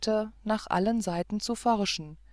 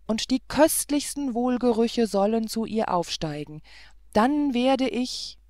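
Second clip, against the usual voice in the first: eager cry; 2 semitones higher, 3 dB louder than usual. Acted. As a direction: call it out with rapture. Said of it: "rief er".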